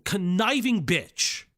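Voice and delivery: swearing tirade. Real, not acted. Swearing rant at the document.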